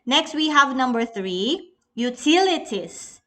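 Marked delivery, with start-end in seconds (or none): 2.0-3.2 utilities with TIL emphasized; utilities, its second syllable standing out; stress on second syllable. Shown as a demonstration. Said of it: "T is the stress syllable".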